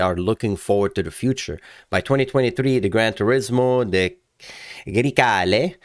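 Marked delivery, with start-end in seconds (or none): 4.9-5.8 put-on amateur Italian accent. Host showing off a car name, playful Italian accent. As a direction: say it with relish in mock Italian. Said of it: "I'm doing an Italian accent".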